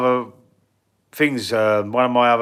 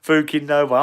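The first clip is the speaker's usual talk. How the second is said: punchline repeated through a real laugh. Real, not acted.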